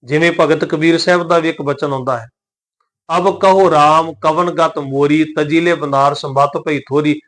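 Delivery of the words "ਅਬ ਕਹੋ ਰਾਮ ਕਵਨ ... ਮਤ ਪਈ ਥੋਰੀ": measured verse, ਮੋਰੀ with a clean oral ending; un-nasalised ਮੋਰੀ. Shown as a demonstration. Teacher quoting Kabir's verse, ਮੋਰੀ without nasal. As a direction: recite it, keeping the last vowel of ਮੋਰੀ un-nasalised. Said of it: "ਬਿੰਦੀ ਤੋਂ ਬਿਨਾਂ ਉਚਾਰਨ ਕਰਾਂਗੇ".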